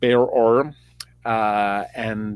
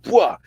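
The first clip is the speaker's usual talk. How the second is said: high, sharp mock sword-swing shout; fighting yell; 8 semitones higher than usual. Storyteller playing Saul swinging swords, mock fighting yell. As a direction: burst out a short combat cry. Other sword knocked away.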